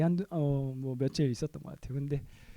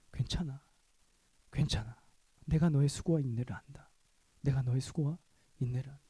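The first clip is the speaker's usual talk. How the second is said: gentle comforting voice. Retold or imitated. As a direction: hold them gently, voice of comfort.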